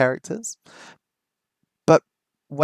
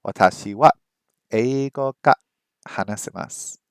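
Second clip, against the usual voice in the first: slow halting read. Shown as a demonstration. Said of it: "I need to say it faster".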